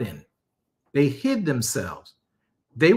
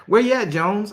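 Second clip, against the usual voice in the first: a higher, casual call-out; God asking the preacher; 7 semitones higher than usual. Acted. God asks the preacher where he is, higher casual call. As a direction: check on him like a friend. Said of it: "He had to ask me".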